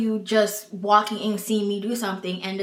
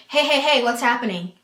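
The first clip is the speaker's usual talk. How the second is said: a touch higher and louder, mock nosy onlooker; lightly mimicked interrupter; 4 semitones higher, 4 dB louder than usual. Onlooker barging into a couple's rope scene, mildly mocking. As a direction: butt in like an intrusive onlooker.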